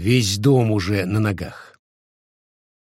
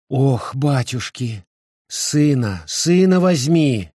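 flustered urging; 4 semitones higher, slower than usual. Acted. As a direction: hurry her, rising alarm. Свекровь торопит Дамашу. (взволнованно торопит)

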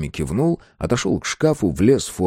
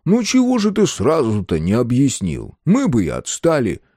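soft; 5 semitones higher than usual. A narrator's reading. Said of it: "и мягко сказал".

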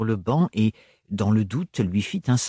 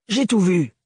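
hissed through teeth; 7 semitones higher, 4 dB louder than usual. Acted. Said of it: "siffla-t-il entre ses dents".

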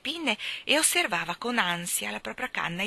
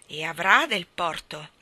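imperious; 6 dB louder than usual. Acted. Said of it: "disse imperiosamente".

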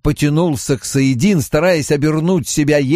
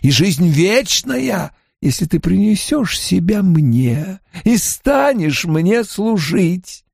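dark lord; 6 semitones higher than usual. Acted. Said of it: "настойчивый голос".

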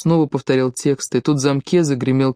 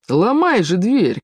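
sharp shout; 6 semitones higher, slower than usual. A narrator's reading. Tiori daring the men behind the door, sharp slow shout. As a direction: dare them, hitting each word. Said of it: "крикнул Тиори резко".

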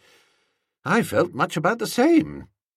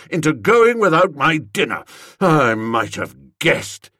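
loud, much higher furious ranting; furious tirade; 4 semitones higher, 5 dB louder than usual. Acted. Aunt berates Bertie for the missed dinner, loud furious rant. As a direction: roar it at the chump.

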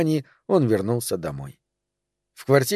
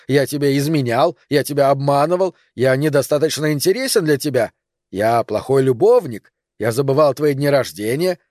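bitter angry tirade; 3 semitones higher than usual. Acted. Abandoned husband rants at his leaving wife, building anger. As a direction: hurl each question harder, slowing on the last. Bitter string of accusing questions.

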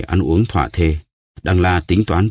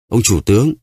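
higher, pleading cry to the chief; desperate call; 4 semitones higher than usual. A narrator's reading. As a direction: call out to him, begging from the floor. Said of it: "nằm phù phục dưới đất và kêu lên".

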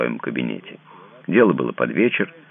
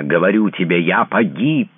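moaning louder; 5 semitones higher, 4 dB louder than usual. A narrator's reading. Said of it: "Снова простонал он".

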